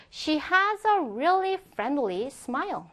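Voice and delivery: slow, careful English example; slow model reading. Shown as a demonstration. Teacher reads an example sentence for learners, slow model reading. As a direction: read it slowly for learners to follow.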